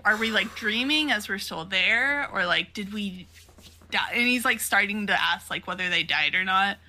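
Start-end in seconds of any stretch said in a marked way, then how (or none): 0.1-4.1 mock freak-out, pitched up; high-pitched retold disbelief; flipping out. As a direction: act out baffled, rising panic without shouting. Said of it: "he is finally flipping his shit too".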